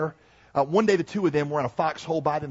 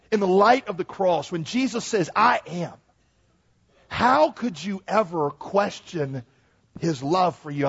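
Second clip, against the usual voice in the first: raised, pressing pulpit voice; emphatic preaching; 4 semitones higher, 4 dB louder than usual. Real, not acted. Preacher challenges congregation to trust the cross, emphatic preaching. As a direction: press the question home, stretching the key words. Preacher applying the story with force.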